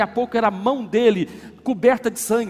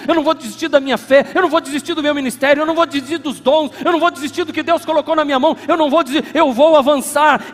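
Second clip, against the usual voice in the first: from steady to loud, higher vow; building declaration; 5 semitones higher, 8 dB louder than usual. Real, not acted. Pastor voicing the believer's vow, building to loud. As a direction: rise into a defiant vow.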